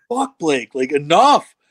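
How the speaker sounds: imitating a fed-up teammate, rising in pitch; mildly angry retold telling-off; pissed teammate. Tough teammate fed up with protecting Blake, mock pissed. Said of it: "he's, he's pissed".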